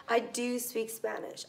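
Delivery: light emphasis on "do"; stress on DO. Shown as a demonstration. Teacher contrasts with the simple statement, "do" lightly stressed. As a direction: lean a little on "do", otherwise conversational. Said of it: "this one adds emphasis".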